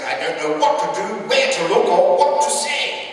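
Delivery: high, mortified mock-royal voice; embarrassed queen. Queen apologising to her guests for the horse, embarrassed. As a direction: act mortified, pitch up, slowing at the end. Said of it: "I'm so embarrassed".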